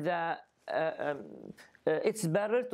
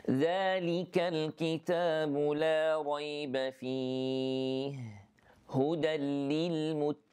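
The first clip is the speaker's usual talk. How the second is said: Quran recitation. Shown as a demonstration. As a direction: recite the verse with measured tajweed. Teacher recites Quran verse.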